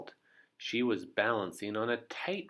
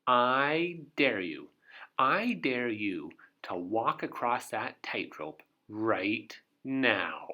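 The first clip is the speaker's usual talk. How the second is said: taunting dare; 3 dB louder, slower than usual. Acted. Miss Trouble taunts Mister Brave.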